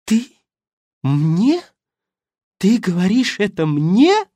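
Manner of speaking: can't believe she dares; actress, outraged, throws the question back, high and loud; outraged disbelief. Acted. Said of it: "со смесью гнева и изумления".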